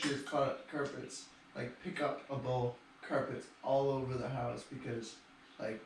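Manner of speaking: muttered aside. Real, not acted. Muttered wheelchair complaint.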